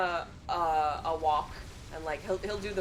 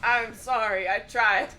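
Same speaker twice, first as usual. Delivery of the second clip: sheepish dog, a bit louder at the end; apologetic dog voice; 4 semitones higher, 5 dB louder than usual. Retold or imitated. Cody apologising to Dad after failing to pee, sheepish. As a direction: plead like a sorry dog. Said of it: "he'd be like".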